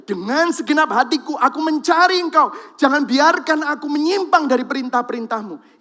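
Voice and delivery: loud, high, fervent reading of the verse; preaching at full force; scripture proclaimed. Real, not acted. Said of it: "kalau saudara tadi lihat".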